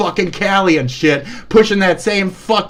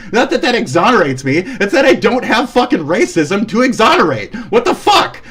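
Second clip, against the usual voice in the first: indignant, voice pushed up; real exasperated outrage; angry rant; 2 semitones higher than usual. Real, not acted. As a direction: fire back at an accuser, outraged. Heated rant against an accuser.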